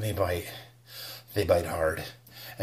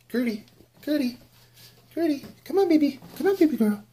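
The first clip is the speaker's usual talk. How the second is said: high sing-song coaxing of a pet; high pet-calling voice; faster than usual. Acted. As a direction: coax the little pet out, way up high. Calling his pet out from hoodie.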